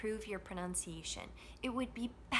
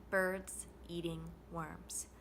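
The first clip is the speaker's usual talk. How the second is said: slow, separate beats on BIRDS, EATING, WORMS; lower, measured BIRDS, EATING, WORMS, each stressed; content words only; 4 semitones lower, 3 dB quieter, slower than usual. Shown as a demonstration. Teacher modelling the assignment, slow separate content words. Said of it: "by just saying the content words, exactly like we did".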